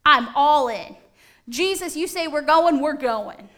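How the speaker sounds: eager vow. Acted. Peter vows to follow Jesus.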